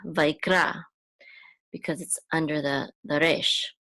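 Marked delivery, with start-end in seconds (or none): 0.1-0.8 vaikra with the accent on the last syllable, RA; stress on RA. Shown as a demonstration. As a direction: put the weight on "ra" in vaikra. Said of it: "the accent is on ra".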